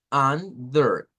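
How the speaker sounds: under kept low and even; under said low before the stress; low unstressed under. Shown as a demonstration. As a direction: keep under down, no push. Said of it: "Mantenemos abajo".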